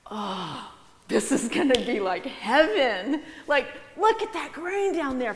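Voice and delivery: high, eager little mouse; a mouse gushing over the grain; excited mouse voice. Acted. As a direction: squeak it out like a greedy mouse. Mouse voiced in children's sermon.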